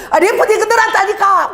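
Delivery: mock irritated retort; annoyed retold reply. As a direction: act out snapping at husband over the scissors. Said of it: "내가 짜증이 나는 거야".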